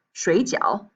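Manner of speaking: 水饺 said very slowly, shui falling-rising, jiao falling-rising; slow tone demo. Shown as a demonstration. Teacher contrasts dumplings and sleep, very slow. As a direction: draw out 水饺 so each tone is heard. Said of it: "Take 水饺".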